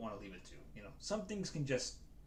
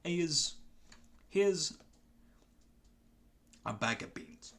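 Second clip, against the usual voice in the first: higher, louder Cockney goblin like Michael Caine; grateful Cockney goblin, pitched up and emphatic; Marjode; 4 semitones higher, 6 dB louder than usual. Acted. Goblin handing over magical beans as reward, Cockney character voice. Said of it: "I'm gonna do a quick character voice".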